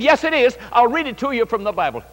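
acting out an insistent contradiction; retold insistence. Retold argument, nephew insists.

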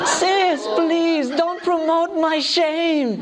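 high, slow, laughing through the words; giggling slow protest; laughing plea. Retold or imitated. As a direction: beg her while cracking up.

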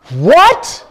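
high, laughing burst of disbelief; shocked laughing what. Retold or imitated. Preacher recalls seeing the name, shocked laugh. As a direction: yelp it out, half laughing.

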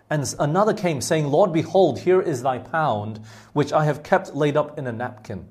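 measured, deliberate Bible reading with pauses between phrases; scripture reading. Acted. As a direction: read the parable out to a congregation. Reads the Bible verse aloud.

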